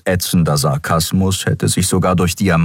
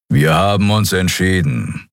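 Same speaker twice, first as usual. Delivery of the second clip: understated grumble; a touch of gruff announcement; grumbling. Acted. Telling the guest of the decision, mild grumble.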